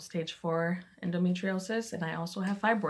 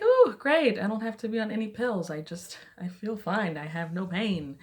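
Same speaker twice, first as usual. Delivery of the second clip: excited; 4 semitones higher, 4 dB louder than usual. Retold or imitated. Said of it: "I was like".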